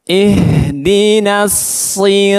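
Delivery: "Ihdinas" slow, its h flowing at medium strength; moderate h. Shown as a demonstration. Teacher models the middle way, "Ihdinas" with moderate h. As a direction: let the h in "Ihdinas" flow without forcing. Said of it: "tapi pertengahan".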